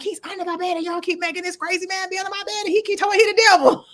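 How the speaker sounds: high-pitched, worked-up rant; acted-out hysterical tattling, one breathless run; frantic complaint. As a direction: protest in a panicky high voice. Retold screaming complaint to the nurses.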